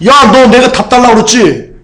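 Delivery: angry outburst. Acted. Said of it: "꼴등이 막 화를 내요". (화가 나서 높고 크게 따지듯)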